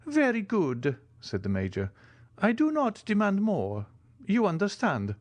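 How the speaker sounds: put-on an old soldier keen to agree; the Italian major. A narrator's reading.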